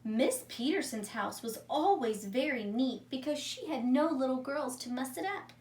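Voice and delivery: calm read-aloud storytelling voice; story narration. A narrator's reading. Teacher reading a story to her class, calm narration. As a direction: read it like a story for young children. Teacher reads a picture book.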